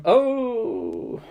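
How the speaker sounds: weary groaning oh; the centipede groaning at his stubborn feet; groaned oh. A narrator's reading. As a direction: let a fed-up groan out on oh. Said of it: "the centipede groaned again".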